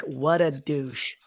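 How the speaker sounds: drawn-out Jersey catchphrase; Jersey accent. Shown as a demonstration. Guest giving his favorite word, slow Jersey accent. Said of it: "with the Jersey accent".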